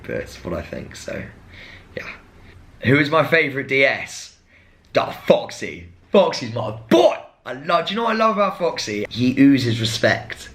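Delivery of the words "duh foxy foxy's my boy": gushing. Real, not acted. Gushing about favourite instructor.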